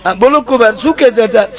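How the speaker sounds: sweet high mom on the phone; mother-in-law voice. Acted. Mother-in-law asks son-in-law what he wanted, high sweet voice.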